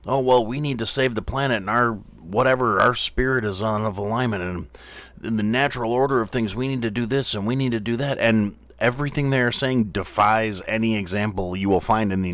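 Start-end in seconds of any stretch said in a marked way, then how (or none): 0.1-8.2 lightly voiced granola hippie; a hint of a dreamy hippie; mocking hippie. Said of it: "granola eating motherfuckers that are sitting there saying".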